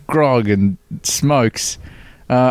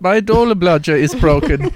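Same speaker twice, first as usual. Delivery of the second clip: mock Dutch accent; 7 semitones higher than usual. Mock Dutch bicycle owner.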